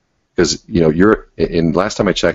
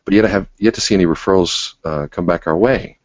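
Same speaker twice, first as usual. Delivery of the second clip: gentle inquiring tone. Shown as a demonstration. Coach showing a referral partner question, gently curious. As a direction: ask it genuinely and leave room. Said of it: "Same thing. You know, say".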